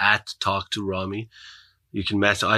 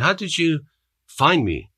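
surprised; 7 semitones higher than usual. Retold or imitated. Surprised question, retold.

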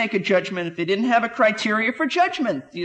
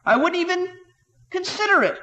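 high, affronted protest; mock indignant churchgoer; 10 semitones higher than usual. Self-righteous churchgoer denying adultery, mock high indignation. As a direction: squeak it out, shocked at the idea. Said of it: "You who say".

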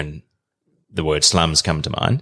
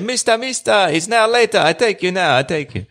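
eager local guide; 13 semitones higher than usual. Retold or imitated. Retelling the eager donkey driver.

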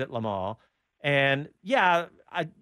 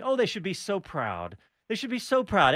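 mock condescension; 3 semitones higher than usual. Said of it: "everybody kept saying".

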